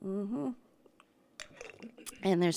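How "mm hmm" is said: gulping swallow sound; audible sips and swallows; drinking sound. Shown as a demonstration. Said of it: "I'm gonna do some drinking sounds".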